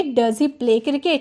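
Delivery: slow, clear teacher dictation; careful slow English; slow model sentence. Shown as a demonstration. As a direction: spell it out slowly for the class. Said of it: "तो बोलूँगी".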